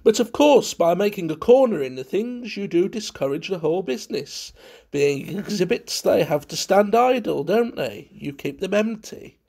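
high, animated chatter; heedless prattler. A narrator's reading. Valentine going on without heeding Munt, prattling. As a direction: chatter on over any objection. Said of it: "went on without heeding him".

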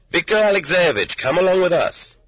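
put-on two young agents hailing him by name; calling out. A narrator's reading. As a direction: call him over, firm and bright. Young men calling out in market.

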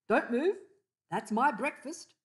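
loud, high commanding kookaburra; bossy order. A narrator's reading. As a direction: order her to freeze. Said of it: "instructed a voice from above".

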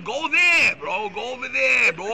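angry shout of go over there. Real, not acted. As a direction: yell it at them, fed up. Telling off Hollywood celebrities.

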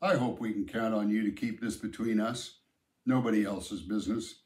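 even, unhurried, a hint of authority; calm and steady. Mister Hanson asking Sam for discretion, calm and steady. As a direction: keep it level and firm. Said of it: "in a calm and steady voice".

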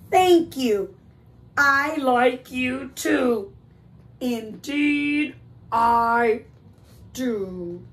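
deliberate, drawn-out bear reply; lightly voiced bear, savoring each word; touched polar bear. Polar bear answering his friend's note, slow and heartfelt.

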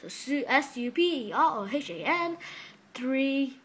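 spelling it out with a touch of a Chinese accent. Real, not acted. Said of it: "put that in such a Chinese accent".

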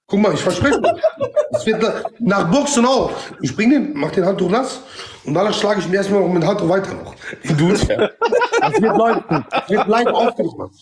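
high, laughing brag; laughing while boasting. Real, not acted. Boasting about beating the opponent.

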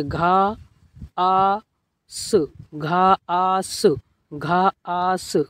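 घा, आ, स said as separate sounds; sounded out. Shown as a demonstration. Teacher leading learners to read along, sounded out. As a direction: spell घास out sound by sound. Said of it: "तो पढ़िए मेरे साथ".

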